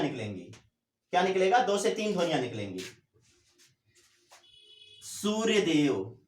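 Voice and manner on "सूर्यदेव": सूर्यदेव said slowly, syllable by syllable; slow demo word. Shown as a demonstration. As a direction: stretch out सूर्यदेव to show its length. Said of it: "इसमें ज्यादा समय लग रहा है". (सूर्यदेव धीरे-धीरे बोलकर दिखाना)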